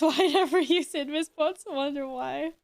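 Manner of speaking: panting after squats; breathless between words; out of breath. Real, not acted. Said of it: "I'm not out of breath".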